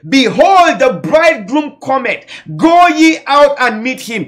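high, ringing proclamation; loud cry. Acted. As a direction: cry it out like a midnight herald. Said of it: "A cry is a loud voice".

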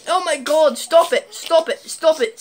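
mock panicked pleading, high and loud; acting scared. Vlogger pretending Chucky is scaring them, panicked pleading. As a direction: beg it to stop in overdone panic. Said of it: "act like I'm really scared".

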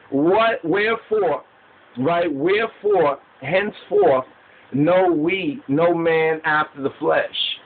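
measured preacher's declaiming, slightly lifted; scripture recitation. Acted. Preacher reading the verse to listeners, measured recitation. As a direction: set out each phrase of the verse.

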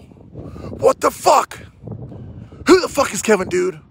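mock disbelief. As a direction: drag it out in a stunned whisper.

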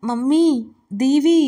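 put-on a hungover girl shouting for her sister; calling out in pain. A narrator's reading. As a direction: voice rising to a call of Deevi. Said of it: "అని అరుస్తోంది వీక్ష". (తలనొప్పితో అరుపు)

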